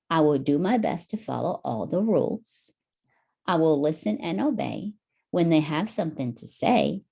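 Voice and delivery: steady, even reading of the lines; reading the verse. Shown as a demonstration. Hero reading the song lyrics to Tommy, even read. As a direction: read the rhyme through clearly once. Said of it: "Read it first".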